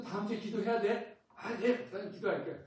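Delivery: quoting the exchange through laughter; laughing while playing both sides; chuckling through the quoted promise. Acted exchange with a congregant.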